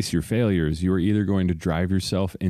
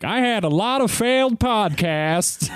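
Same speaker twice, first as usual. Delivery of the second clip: hologram voice; slower than usual. Pretend. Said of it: "hologram of me being like".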